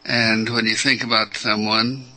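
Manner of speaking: measured meditation guidance with long pauses; guided meditation. Real, not acted. Teacher guiding callers through opening up, unhurried meditation delivery. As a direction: lead them inward, leaving space after each phrase.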